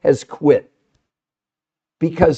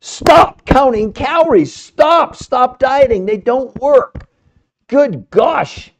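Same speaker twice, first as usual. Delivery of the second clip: high, emphatic, drawn-out exhortation; fired up; 5 semitones higher, 4 dB louder, much slower than usual. Real, not acted. Host firing up viewers to quit dieting, impassioned and emphatic. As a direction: fire them up, punching each stop loudly. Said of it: "I'm gonna fire you up".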